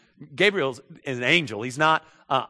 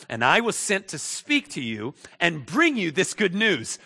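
indignant; 5 semitones higher than usual. Acted. Gabriel answers the doubting Zechariah, indignant. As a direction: state your credentials, offended. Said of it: "Gabriel gets indignant".

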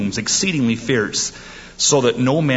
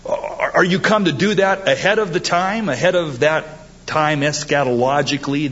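demon question; 5 semitones higher than usual. Acted. Voicing demons' question again.

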